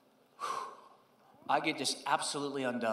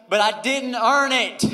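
pleading protest; 7 semitones higher, 9 dB louder, slower than usual. Retold or imitated. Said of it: "I say to him".

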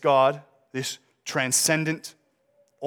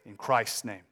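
prayer. Acted. Closing prayer.

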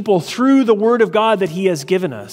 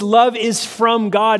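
"love is from God" slowed, weight on LOVE; very emphatic; slower than usual. Retold or imitated. Preacher shows the Greek emphasis, stressing LOVE slowly. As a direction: lean on LOVE and slow the phrase down. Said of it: "is very emphatic in the way".

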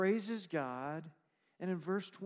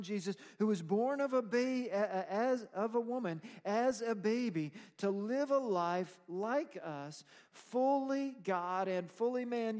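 raised, driving pulpit delivery; impassioned preaching; 5 semitones higher, 5 dB louder than usual. Real, not acted. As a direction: press each phrase home to the congregation. Preaches the gospel to congregation.

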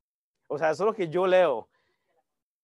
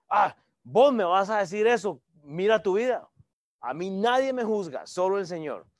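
defiant churchgoer; 3 semitones higher, 4 dB louder than usual. Retold or imitated. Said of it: "usted no ha escuchado eso".

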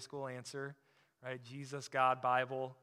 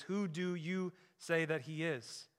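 slow earnest question; slower than usual. Acted. Question repeated, personal.

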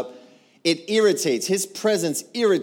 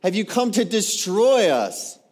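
high, drawn-out demonic protest; acted demon's alarmed challenge; crying out; 5 semitones higher, 4 dB louder than usual. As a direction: cry out slowly, raised pitch. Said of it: "and he cried out".

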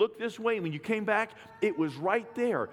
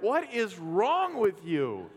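wife's teasing; 2 semitones higher, much slower than usual. Retold or imitated. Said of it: "my wife was like".

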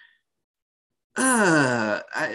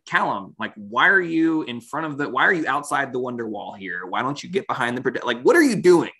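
mock scolding parent; 3 semitones higher than usual. Cohost voicing Rayla scolding Callum like a parent. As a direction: nag like a worried parent. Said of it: "being like that parent".

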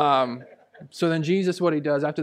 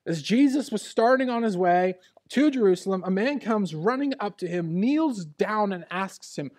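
preaching; 5 semitones higher than usual. Acted. Pastor reading Jesus's words aloud to the church, preaching.

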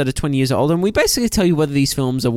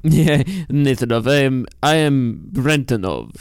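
put-on Russian accent. Takes a joke Russian name.

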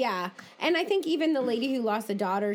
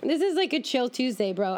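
chill bro; 4 semitones higher, 3 dB louder than usual. Retold or imitated. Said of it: "imitating unbothered cameraman".

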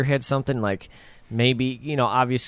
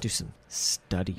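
sarcastic; 5 semitones lower, 9 dB quieter, slower than usual. Retold or imitated. Co-host mocking Nancy's excuse.

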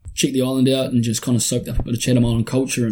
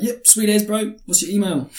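casual kiwi slang reply; relaxed New Zealand mate voice; broad kiwi accent; 7 semitones higher than usual. Retold or imitated. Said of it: "being like".

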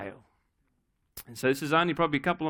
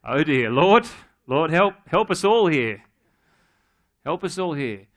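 laughing mock despair; 6 dB louder than usual. Mock prayer over child's flaws.

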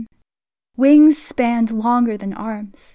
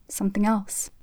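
secretive whisper; 7 dB quieter than usual. A narrator's reading. Boy's secretive invitation.

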